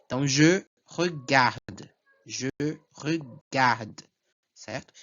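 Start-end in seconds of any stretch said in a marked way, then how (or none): 0.3-1.9 slow je regarde, weight on gar, ending on D; stress on last syllable. Shown as a demonstration. Teacher demonstrates strongest syllable, slow stressed je regarde. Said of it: "a sílaba mais forte". 2.2-4.0 je, pause, then regarde ending on a sounded D; stop on the D. Shown as a demonstration. Teacher shows where pronunciation stops, je regarde halted at D. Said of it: "eu paro aqui a minha pronúncia".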